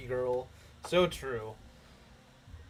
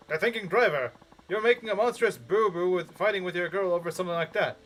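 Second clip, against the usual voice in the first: chirpy radio DJ banter; lightly voiced radio host; announcer voice. Shown as a demonstration. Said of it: "announcer voice".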